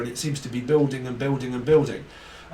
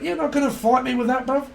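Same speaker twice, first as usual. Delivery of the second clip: mock London taunt; 11 semitones higher, 3 dB louder than usual. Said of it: "It's like".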